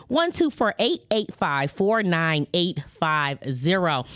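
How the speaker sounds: each digit said slowly and clearly; over enunciating. Shown as a demonstration. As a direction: spell the number out carefully for listeners. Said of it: "Let me say that again slowly".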